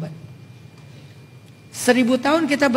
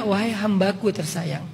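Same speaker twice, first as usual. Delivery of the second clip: tender loving call; 3 dB quieter than usual. Retold or imitated. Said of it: "Karena dia pencipta, maka manggilnya".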